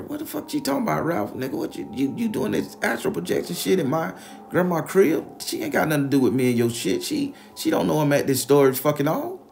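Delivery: high, loud, fast outraged yelling; incredulous yelling. Retold or imitated. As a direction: blast him with disbelief. Teller yells at Ralph.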